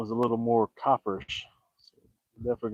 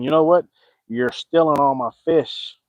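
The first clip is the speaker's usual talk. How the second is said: scolding bird voice; 3 semitones higher, 4 dB louder than usual. Retold or imitated. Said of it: "She is bitching him out, going".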